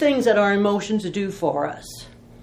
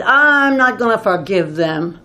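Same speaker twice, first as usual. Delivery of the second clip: a louder, dug-in refusal, lightly acted; mild mock defiance, louder; stubborn refusal; 6 dB louder than usual. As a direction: say it like a man who won't budge. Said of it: "That guy was mad, boy".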